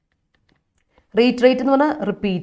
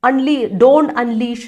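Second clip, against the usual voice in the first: slow quote; much slower than usual. Retold or imitated. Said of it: "പറയുന്ന കേട്ടില്ലേ".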